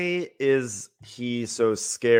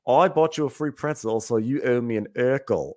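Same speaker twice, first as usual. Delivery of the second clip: quoting him. Retold or imitated. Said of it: "he goes, he goes".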